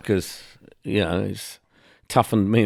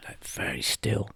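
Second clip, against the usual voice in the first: heron impression; 2 semitones lower, 12 dB quieter than usual. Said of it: "That heron impression is".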